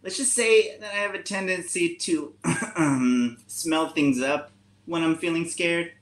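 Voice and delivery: a timid skunk owning up to a smelly habit; nervous skunk voice. Acted. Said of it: "trying to go a little bit higher or lower depending on each animal".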